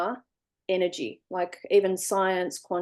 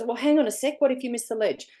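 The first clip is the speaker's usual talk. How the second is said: higher, careful worry; cautious inner voice; 4 semitones higher, faster than usual. Retold or imitated. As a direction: pull yourself back from the edge. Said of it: "And this voice goes".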